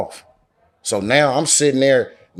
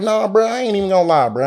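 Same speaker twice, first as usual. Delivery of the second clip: higher, quicker mock pleading; retold reluctant objection, pitched up and rushed; high-pitched protest; 9 semitones higher, faster than usual. Begging off the boar hunt, high-pitched protest.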